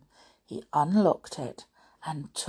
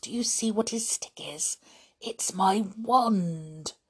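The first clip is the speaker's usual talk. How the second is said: hissed whisper; 4 semitones higher than usual. A narrator's reading. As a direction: whisper a discovery behind the teacher's back. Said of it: "he hissed".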